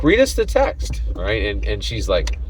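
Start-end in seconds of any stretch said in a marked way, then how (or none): 0.0-1.0 mock thug order, pitched up high; thug's demand. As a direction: bark it like a hammed-up mugger. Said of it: "And he's like".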